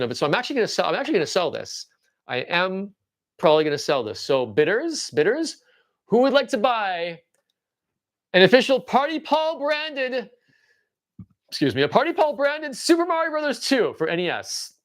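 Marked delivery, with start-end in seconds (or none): 4.2-14.7 auctioneer. Pretend. Auction sales pitch.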